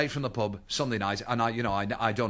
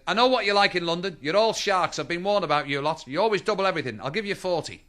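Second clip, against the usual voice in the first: insistent haggling; 3 semitones higher, 4 dB louder than usual. Acted. Liverpool lady haggling in Harrods.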